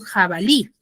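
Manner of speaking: "jabalí" with the last syllable lí stressed; stress on final syllable. Shown as a demonstration. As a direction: lean on the lí at the end of "jabalí". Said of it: "mayor fuerza de voz en la última sílaba".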